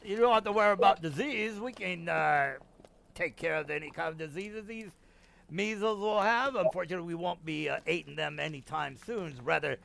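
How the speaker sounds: lightly voiced contemptuous Templar; sadistic Templar. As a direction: sneer at the measles like a cruel soldier.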